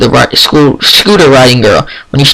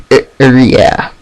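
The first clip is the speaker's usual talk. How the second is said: stammering; slower than usual. Acted. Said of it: "she stammers".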